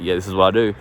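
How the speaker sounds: matter-of-fact, unfussed answer; neutral. Shown as a demonstration. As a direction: state it simply, no apology. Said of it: "neutral with it".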